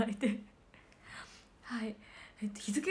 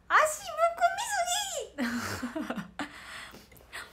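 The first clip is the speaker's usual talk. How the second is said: exclaim; 14 semitones higher, 4 dB louder, much faster than usual. Real, not acted. Sudden complaint about swollen feet.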